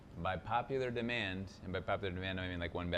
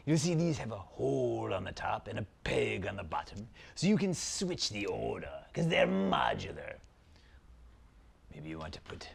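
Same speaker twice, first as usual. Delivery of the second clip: dark lord. Acted. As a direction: savour every word like an evil prince. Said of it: "Zaltar, Prince of Phantasm".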